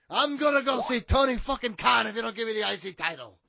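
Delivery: put-on muddled Irish accent, half pirate; botched Irish accent. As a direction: attempt an Irish accent and land near pirate. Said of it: "I don't know what that accent was".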